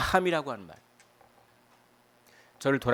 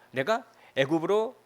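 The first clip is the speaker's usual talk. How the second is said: normal talking voice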